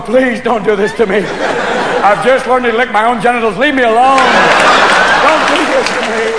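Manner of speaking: hammed-up dog begging its owner; pleading dog. Stoned owner's dog begs, mock pleading. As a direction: plead lightly as the put-upon dog. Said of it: "There's your dog going".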